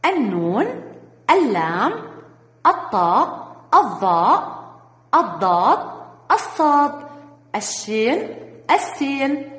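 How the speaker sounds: slow, clear letter-by-letter list; name each sun letter on its own. Shown as a demonstration. Teacher lists the sun letters for children, one by one. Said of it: "الحروف الشمسية".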